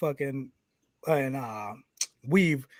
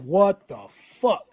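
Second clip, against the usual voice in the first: mock disbelief; 3 semitones higher, much slower than usual. Repeating shocked reaction.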